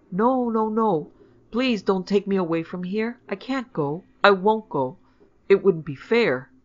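put-on high, loud child in distress; tearful pleading. A narrator's reading. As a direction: plead as if bursting into tears. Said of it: "burst into tears".

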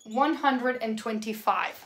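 one connected, measured run; whole number, slowly. Shown as a demonstration. Teacher repeating the dictated number, slow and connected. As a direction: say "one hundred and twenty-five" slowly without breaking it.

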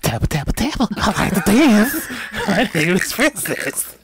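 a hint of Princess, laughing; playful imitation with a giggle; Princess impression. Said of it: "give us your princess".

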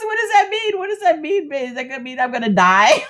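high, a touch of mock panic; lightly imitating a worried husband. She imitates her husband's fear, mock panicked. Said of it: "He goes".

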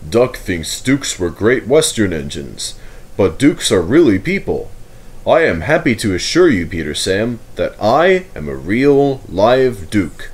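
lightly voiced stately Duke, slowing at the end; a hint of a dignified nobleman declaring a line open; formal Duke. The Duke addresses ladies, gentlemen and engines, a touch formal. The Duke answers Peter Sam.

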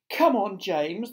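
slow, cajoling call; coaxing. A narrator's reading. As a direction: coax him along. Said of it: "coaxing him".

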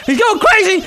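very high, near-shrieking commentary; wildly excited. Real, not acted. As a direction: yell it at peak excitement. Repeats it as action escalates.

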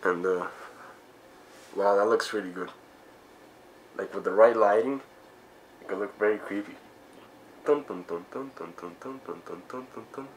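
muffled behind rubber mask; speaking inside full-head mask; through a face mask. Real, not acted. Seen 2: Full latex mask covers mouth throughout; reference frames show it held, unworn.

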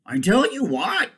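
high, loud, chirpy donkey; bright donkey. Acted. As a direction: pipe up with a bright idea. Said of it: "said the donkey brightly".

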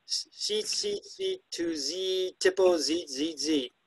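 very high, squeaky "Seat, seat, seat"; mimicking bird song. Shown as a demonstration. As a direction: pipe it high like a sparrow. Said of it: "one of the descriptions from the bird books".

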